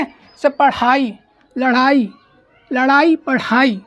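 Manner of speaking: लड़ाई and पढ़ाई said slowly, stretching the flap ड़; slow teacher's drill of पढ़ाई; slow pronunciation drill. Shown as a demonstration. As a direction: spell out लड़ाई, पढ़ाई sound by sound. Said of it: "clear है?".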